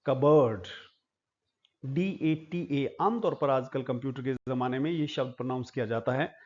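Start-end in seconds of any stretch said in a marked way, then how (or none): 0.1-0.7 कबर्ड said as "kub-bud", with no p; silent p. Shown as a demonstration. Teacher modelling cupboard for students, silent p. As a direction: give कबर्ड without the p, firmly. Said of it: "प silent हो जाता है".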